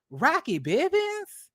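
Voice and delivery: can't believe it's him; incredulous. Real, not acted. Mocking the affair over this man, in slow disbelief.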